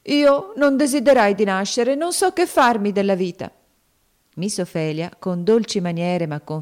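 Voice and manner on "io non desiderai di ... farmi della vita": put-on higher, louder sobbing girl; grieving cry. A narrator's reading. Topsy grieving for Eva, sobbing.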